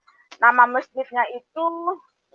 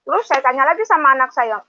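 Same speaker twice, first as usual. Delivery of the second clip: ordinary delivery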